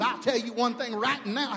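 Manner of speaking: mimicked sassy telling-off; sassy wife. Pastor acting out his wife's scolding, mock sassy. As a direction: imitate a wife with head-shaking attitude. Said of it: "She'd shake her head like she had some weave".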